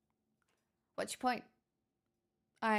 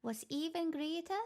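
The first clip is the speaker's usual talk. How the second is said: playful put-on Irish; Irish accent; 2 semitones higher than usual. Streamer chats about gifted subs, put-on Irish accent. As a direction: keep up the Irish lilt. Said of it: "where the Irish accent has appeared".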